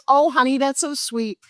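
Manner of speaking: high, indulgent mom brush-off; patronizing sweet. Retold or imitated. Mom humoring her teenage daughter's big plan, sweetly dismissive. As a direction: pat the kid on the head with your voice.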